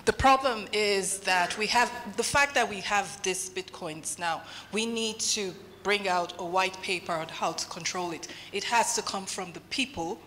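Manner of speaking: speaking away from the microphone; off mic. Real, not acted. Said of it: "I will roll the mic".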